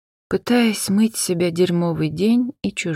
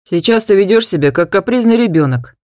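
louder stern father voice; 2 semitones higher, 5 dB louder than usual. Acted. Father scolding his daughter, louder and stern. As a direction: scold her firmly. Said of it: "строго сказал папа".

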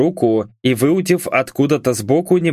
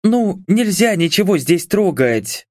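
higher, scolding objection; indignant; 7 semitones higher than usual. A narrator's reading. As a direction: protest like a rule-keeper. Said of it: "возмутилась юристка".

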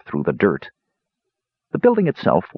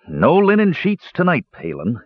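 higher, a grin in the voice; grinning teasing; 8 semitones higher than usual. A narrator's reading. Sturm teasing his younger brother, grinning. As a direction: tease the little brother with a smile. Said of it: "he said, grinning at his younger brother".

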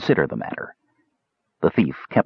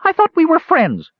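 much higher and louder, sobbing wail; 4 dB louder than usual. A narrator's reading. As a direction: wail it like a betrayed friend. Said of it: "sobbed Earwig".

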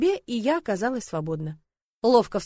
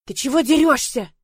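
1 indignant; 5 semitones higher, 7 dB louder than usual. A narrator's reading. Героиня упала от толчка.

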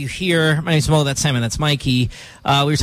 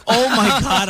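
higher-pitched imitation of a panicking kid; lightly acted childish alarm; mock freak-out; 6 semitones higher than usual. Dad imitating his frightened five-year-old son, mock freak-out. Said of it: "he's freaking out".

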